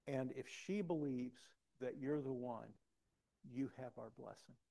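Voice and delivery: understated fatherly sincerity; solemn blessing. Retold or imitated. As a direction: speak it gravely, phrase by phrase. Solemnly quotes father-in-law's blessing.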